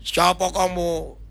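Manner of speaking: slow, stretched demon voice; possessed maid. Retold or imitated. Possessed maid confronts the pastor again, drawn-out mock-demonic voice. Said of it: "dia tanya".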